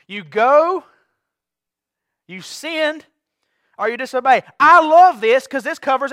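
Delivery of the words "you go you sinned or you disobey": "disobey" said again at full voice, no longer hushed; repeated louder. Shown as a demonstration. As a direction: push the repeat out firmly to wake them. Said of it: "Ooh, got quiet".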